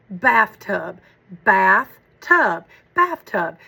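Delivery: bath-tub split into two beats; clapping out syllables. Shown as a demonstration. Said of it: "We've done syllables in Heggerty, so we say".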